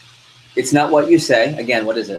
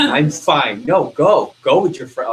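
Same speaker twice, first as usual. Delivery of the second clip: mildly raised, insistent false okay; mock huffy girlfriend; 3 semitones higher, 4 dB louder, slower than usual. Girlfriend sending boyfriend off with friends, mock huffy. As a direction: insist you're fine while clearly not. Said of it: "don't ever believe that one".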